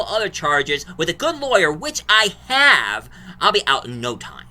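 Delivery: high, loud mock rant of a caught killer; angry yelling. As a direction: yell it like a cornered killer showing off. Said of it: "Chris Evans yelled out".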